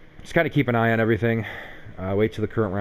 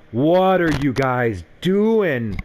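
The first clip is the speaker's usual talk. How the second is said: exasperated yell; 4 semitones higher, 4 dB louder, much slower than usual. Real, not acted. Frustrated at penalties in game.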